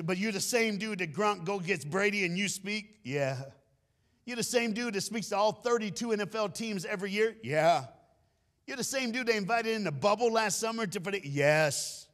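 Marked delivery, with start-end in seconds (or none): 0.0-3.0 high, loud, astonished questioner; amazed fan. Retold or imitated. Fan quizzing the speaker about his fame, high and amazed. 4.3-7.4 high, loud, astonished questioner; amazed fan. Retold or imitated. Fan quizzing the speaker about his fame, high and amazed. 8.7-11.3 high, loud, astonished questioner; amazed fan. Retold or imitated. Fan quizzing the speaker about his fame, high and amazed.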